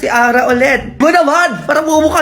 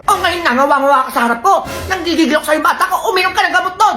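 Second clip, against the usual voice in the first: fussing mother; 3 semitones higher than usual. Acted. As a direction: fuss over the crying child. Mother fusses over sick kid.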